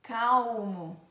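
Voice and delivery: "Calmo" said "caw-mo", L as a "w". Shown as a demonstration. Teacher showing L's other sound, "Calmo" as "caumo". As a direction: round the L of "Calmo" into "u". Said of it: "um som do W".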